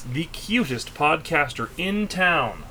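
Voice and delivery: slow affectionate tease; sweet teasing. Acted. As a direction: soften it for your partner. Teasing compliment to wife.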